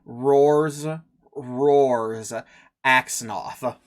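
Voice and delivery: lightly rasped creature voice; a hint of a raspy undead. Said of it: "his response in a raspy voice is".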